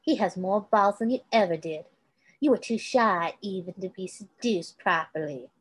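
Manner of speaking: lightly voiced Kate, taunting with pet names; villainess cooing. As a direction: coo like a cruel woman patronising a boy.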